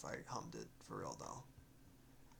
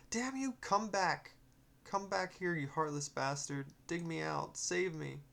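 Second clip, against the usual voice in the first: high, loud furious shout of a trapped spirit; angry spirit yell; 6 semitones higher, 6 dB louder than usual. Acted. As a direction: curse him as he walks away. Angry spirit yelling at boy.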